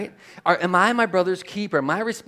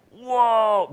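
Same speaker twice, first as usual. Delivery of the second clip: long, raised whoa; overwhelmed awe; 4 semitones higher than usual. Acted. Preacher voices Isaiah seeing God, overwhelmed awe. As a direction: draw it out, blown away. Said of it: "He's so overwhelmed".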